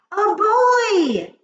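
loud, very high-pitched outcry; high, loud witchy exclamation; witches' cry. A narrator's reading. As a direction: shriek it like a crowd of witches. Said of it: "cried all the witches".

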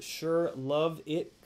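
Sure love it read very slowly, word by word; slow drawn reading. Shown as a demonstration. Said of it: "Content or content".

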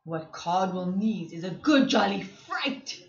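lightly low lion voice; a hint of a growling lion.

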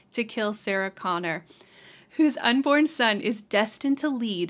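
epic trailer narrator read; movie trailer voice. Shown as a demonstration. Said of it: "let me put on my movie voice".

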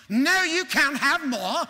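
loud, high, drawn-out mock-British refusal; hammed-up British workhouse bellow; Dickens novel character. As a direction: thunder it like an outraged Dickensian master. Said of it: "I was in a Dickens novel".

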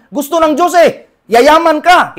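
high, loud proclamation; preaching shout. Real, not acted. Preacher shouts to the congregation that God wants them rich, loud and high. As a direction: cry it out to the congregation.

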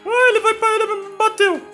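shrill panicked cry; scared horror game streamer. Real, not acted. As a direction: shriek as the monster hits. Monster attacks his character.

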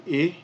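Arabic "I" with a short i vowel; "I" said as a short, clean i sound. Shown as a demonstration. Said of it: "So here we would say".

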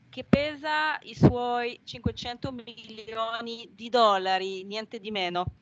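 Italian spoken with a French accent. Real, not acted. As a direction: native French speaker talking in Italian. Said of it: "Scusate il mio italiano, io sono francese".

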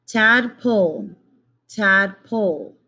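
tadpole split slowly as tad, pole; syllable by syllable. Shown as a demonstration. Teacher counting syllables for young students. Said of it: "two syllables".

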